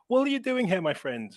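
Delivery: hint of the old stranger, starting high and dropping; lightly voiced old guy. Old guy quizzing the visitor from London, lightly imitated. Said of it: "was this old guy with a walking stick".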